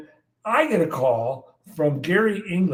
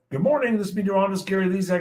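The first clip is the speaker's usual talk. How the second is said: quick forecast read; 5 semitones higher, much faster than usual. Retold or imitated. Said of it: "and we recorded".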